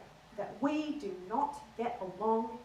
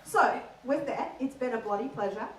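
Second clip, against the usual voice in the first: Aussie sign-off. Shown as a demonstration.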